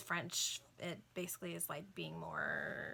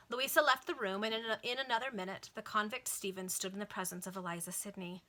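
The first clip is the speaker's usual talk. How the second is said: measured, lilting novel reading; formal audiobook-style narration; story narration; 3 dB louder than usual. A narrator's reading. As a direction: read it out like an old serial. Reads a novel aloud.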